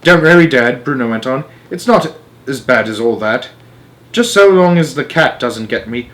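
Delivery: put-on loud cheerful boy voice; cheeky boy. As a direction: reassure Dad with a grin. Bruno reassures father.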